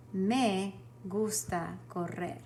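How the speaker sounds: slow, careful Spanish, each word clear; teacher spells out the answer for the class, slow and careful; slow model answer. Shown as a demonstration. Slow classroom dictation. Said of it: "you would say".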